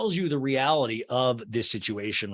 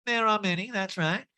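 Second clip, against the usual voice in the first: high nasal impression; pinched put-on high reply; mock matter-of-fact high voice; Erica Jane; 8 semitones higher than usual. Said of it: "that Erica Jane imitation".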